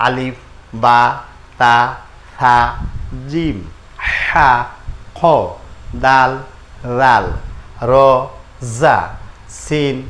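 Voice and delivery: the same letter names rattled off quickly in one steady run; brisk alphabet run. Shown as a demonstration. Teacher to students reviewing the alphabet, brisk run. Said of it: "দেখেন এখানে".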